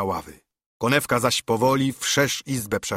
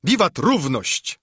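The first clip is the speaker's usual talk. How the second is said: cheer; 5 semitones higher, slower than usual. Acted. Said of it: "krzyknęli".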